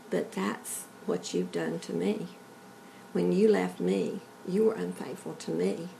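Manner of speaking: soft, unhurried retelling of a tender reproach; sweet, gentle voice. Retold or imitated. God answering a woman praying on her knees, sweet and gentle. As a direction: voice God's words gently, without scolding. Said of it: "sweet, gentle voice".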